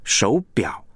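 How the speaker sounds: 手表 with the weight on 表; back-heavy 手表; stress on second syllable. Shown as a demonstration. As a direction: make 表 the key syllable of 手表. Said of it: "你真正要表达是那个表".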